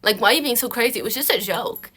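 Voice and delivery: mock placating, pushed and emphatic; exasperated mock "chill out" delivery; dismissive boyfriend imitation. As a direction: act out a boyfriend brushing off her anger. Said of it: "he needs to calm you down".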